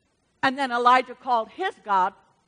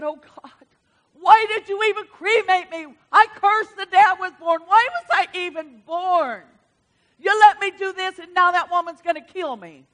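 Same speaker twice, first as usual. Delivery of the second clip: higher, louder despairing plea; despairing cry; 5 semitones higher, 4 dB louder than usual. Acted. Elijah under the bush crying out to God in despair. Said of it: "bawled his eyes out and started crying".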